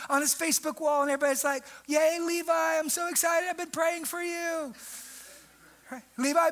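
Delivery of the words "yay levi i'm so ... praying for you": sugary mock congratulations, higher; gushing churchgoer. Preacher mocks church friends cheering Levi online, gushing. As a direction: play the gushing commenter, high and sweet.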